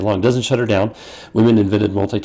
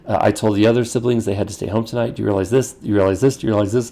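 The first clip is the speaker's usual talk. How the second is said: wife scolding. Retold or imitated. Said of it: "And she said".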